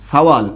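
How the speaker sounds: সাওয়াল with a long glide in the middle; dialect pronunciation. Shown as a demonstration. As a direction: say সাওয়াল as a regional form of ছেলে. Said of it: "এরকম বলা হয়".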